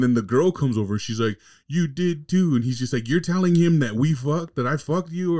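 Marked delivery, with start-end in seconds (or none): 1.7-2.5 imitating the wife, pitched higher; a mocking higher wife accusing. Retelling the wife accusing the black dude, mock high voice. 3.1-5.4 imitating the husband, higher, incredulous; a higher, disbelieving nerdy husband; mock husband. Retelling the husband confronting the black dude, higher mock voice.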